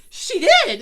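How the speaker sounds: high, loud insistence through laughter; wife yelling back that she saw it; insistent yell. Retold or imitated. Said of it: "I was like".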